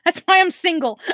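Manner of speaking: high, loud laugh around the words; laughing at herself. Real, not acted. Joking to viewers about being single, laughing. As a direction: laugh through the punchline. Laughing at her own joke.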